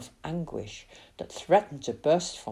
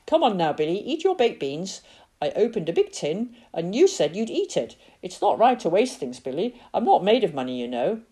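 gossipy aunt voice; chatty gossiping auntie; Auntie May voice; 2 semitones higher than usual. Acted. Auntie May coaxing Billy.

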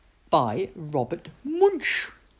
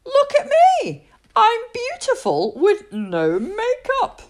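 high, louder cry of joy; delighted yell; 5 dB louder than usual. Acted. Julie yells at her mirror in delight, high and loud. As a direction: shout it at the mirror. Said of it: "and yelled".

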